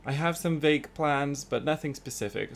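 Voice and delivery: talking into a mug, muffled. Real, not acted. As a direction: speak with the mug at your lips. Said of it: "Sorry, I'm just talking into my mug now".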